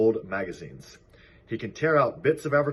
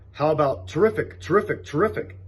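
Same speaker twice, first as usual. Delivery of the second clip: goose voice; 7 semitones higher, 4 dB louder than usual. A narrator's reading. Goose suggests in character.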